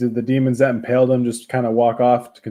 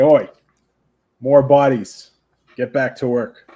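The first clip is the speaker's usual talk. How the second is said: bossy call, higher and louder; a player's character shouting at lesser devils to get back to work; yelled order; 3 semitones higher, 6 dB louder than usual. Acted. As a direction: bark it at the other devils. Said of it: "scream to these other devils".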